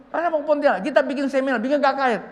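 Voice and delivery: high, loud, excited planning; eager announcement. Retold or imitated. Old pastor proposes seminar and revival, eager and loud. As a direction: imitate an old pastor announcing big plans.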